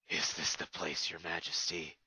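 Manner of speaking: lightly voiced royal guard; guard's voice. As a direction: ask like a dutiful soldier. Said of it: "the White Guard asked".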